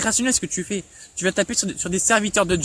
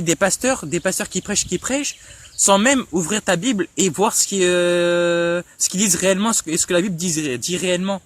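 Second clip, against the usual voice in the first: stammering a little. Real, not acted. Vlogger scolding André about checking his Bible, stammering a little. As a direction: stumble and repeat words while pressing the point. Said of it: "Désolé si je bégaye un peu".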